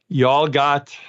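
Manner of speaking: a light Southern drawl on y'all; playful Southern drawl, y'all got. Shown as a demonstration. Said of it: "my Southern drawl".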